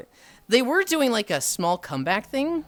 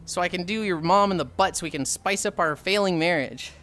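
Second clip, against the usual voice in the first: the dad; 3 semitones higher than usual. Retold or imitated. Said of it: "and dad goes".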